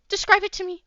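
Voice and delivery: high, loud urgent plea; panicked demand. Acted. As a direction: Hoshi urging Haru to describe his hair, high and loud. Hoshi demands description, panicking.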